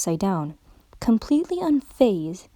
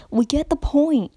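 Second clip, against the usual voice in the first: interrupting; 6 semitones higher, 4 dB louder than usual. A narrator's reading. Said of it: "interrupted Applejack".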